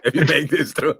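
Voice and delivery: high, fast, pleading to the pilot; frantic pleading. Retold or imitated. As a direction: beg the pilot to land, rushed and high. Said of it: "I'm like".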